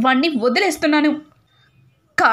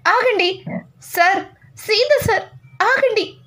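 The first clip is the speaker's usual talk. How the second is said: high, urgent pleading, drawn out; pleading to stop; 6 semitones higher, slower than usual. Acted. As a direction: beg him to stop, pitched high. Wife stops angry husband. (భర్తను ఆపమని పైస్థాయిలో వేడుకోలు)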